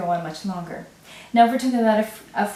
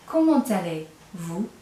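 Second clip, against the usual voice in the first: slower repeat; slower than usual. Shown as a demonstration. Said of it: "you're hearing that more formal "vous".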